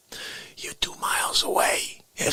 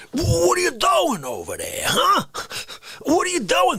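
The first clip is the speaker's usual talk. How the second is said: mock confrontation; 8 semitones higher than usual. Mock confronting someone in chat.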